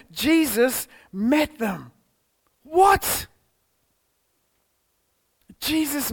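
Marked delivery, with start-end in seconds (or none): 2.6-3.3 surprised what. Pretend. Mock surprise at Jesus appearing.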